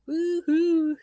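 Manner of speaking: high excited whoop; cheering woohoo. Real, not acted. Host cheering her own bingo win.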